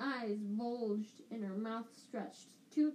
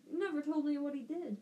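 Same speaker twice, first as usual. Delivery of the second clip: loud; 5 semitones higher, 4 dB louder, faster than usual. Acted. Tipsy aunt presses question.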